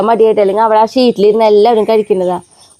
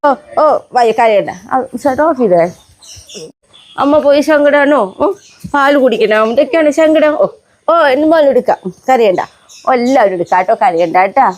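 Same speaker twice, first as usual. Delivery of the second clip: hushing pet talk; 3 semitones higher than usual. Acted. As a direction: hush the crying pups gently. Hushing crying puppies.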